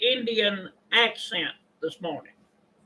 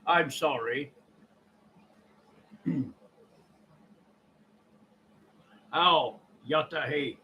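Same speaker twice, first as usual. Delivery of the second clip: low, quiet imitation Native American voice; put-on Native American accent, hushed; 9 semitones lower, 5 dB quieter than usual. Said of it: "as a Native American would speak".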